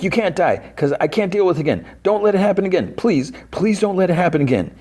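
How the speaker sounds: very high, whiny mock plea; imitated sobbing plea. Dustin begging Steve not to die, high-pitched imitated distress. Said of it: "And he's, like, sobbing".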